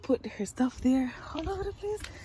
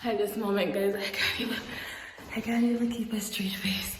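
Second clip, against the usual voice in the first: breathy whisper, stifling a giggle; conspiratorial prank whisper; 5 semitones lower than usual. Real, not acted. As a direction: whisper so she can't hear you. Hiding, stifling laughter before prank.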